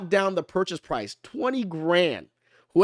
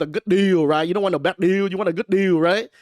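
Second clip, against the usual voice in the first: put-on Asian accent, a bit louder; 4 dB louder than usual. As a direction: playfully lay on an Asian accent. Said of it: "That's my little Asian accent".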